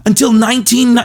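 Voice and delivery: high, loud teacher voice, fed up; exasperated teacher. Retold or imitated. Teacher correcting pranking students, high and exasperated. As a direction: explain it through gritted teeth like a tired teacher. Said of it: "he would always be like".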